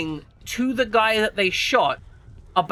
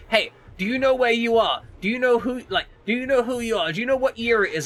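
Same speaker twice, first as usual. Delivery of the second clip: imitating a paramedic; 5 semitones higher than usual. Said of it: "He's like".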